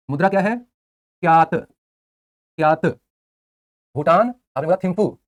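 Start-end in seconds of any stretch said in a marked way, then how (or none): 1.2-2.9 drawn-out drill. Shown as a demonstration. Teacher drilling currency name.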